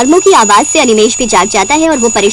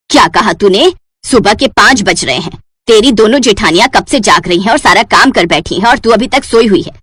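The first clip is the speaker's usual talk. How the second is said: scolding mother-in-law; 4 semitones lower than usual. Acted.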